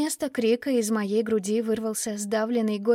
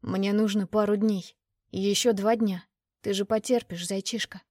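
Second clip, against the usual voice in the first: raspy whisper. Acted. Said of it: "Мужской голос низкий, с усталой хрипотцой".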